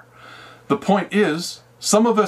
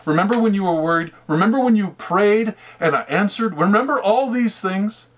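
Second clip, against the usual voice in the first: raised, pleading, patient exasperation; exasperated Jesus; 5 semitones higher than usual. Retold or imitated. Jesus pleads with Daniel, remember what I did, exasperated. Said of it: "He's saying".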